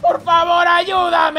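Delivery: yelling for help. Acted. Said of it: "Ah, deja de gritar".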